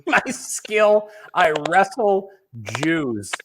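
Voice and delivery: slow, drawn-out mock declaration; mock deadpan recap. Co-host replays the comic's odd talent, slow mock declaration. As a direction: stretch each word out for the joke.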